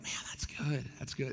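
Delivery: softly murmured, offhand approval; mock passive approval. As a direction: toss it off quietly, as if moving right on. Acting out casual, passing approval.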